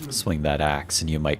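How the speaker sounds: low, measured menacing villain; calm superior villain lecturing; a hint of a cold villain; lightly voiced villain. Villain voice again.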